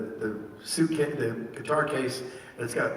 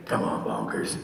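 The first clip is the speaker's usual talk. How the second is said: Lucky's voice; 4 semitones lower than usual. Shown as a demonstration. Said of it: "in my head, I would be thinking".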